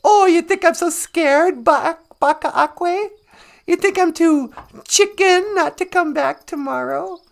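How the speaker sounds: lightly voiced cocky fox; taunting fox. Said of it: "And Wagosh says".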